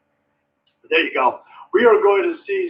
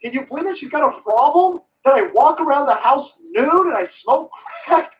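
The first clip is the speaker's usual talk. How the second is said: high, whiny imitation of the son; mock whiny son; 4 semitones higher than usual. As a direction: whine it like a spoiled son to his dad. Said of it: "he's telling him".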